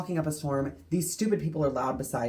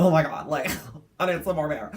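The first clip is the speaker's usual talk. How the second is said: put-on drunk woman; 3 semitones higher, 6 dB louder, faster than usual. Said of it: "and then she's like".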